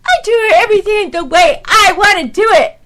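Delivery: half-yelled sermon, not truly angry. Real, not acted. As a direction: rail at the room like a fired-up preacher. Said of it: "I sound like a yelling old preacher".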